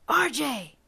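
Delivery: high shout across the clearing; calling scream. A narrator's reading. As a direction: call him back from a distance. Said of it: "a voice screamed".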